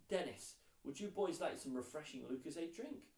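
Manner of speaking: mum calling out from the next room; shouted offer. Acted. Mum offering the boys a drink from the next room, calling out. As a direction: call it through the wall, bright and eager. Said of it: "shouted Darvesh's mum".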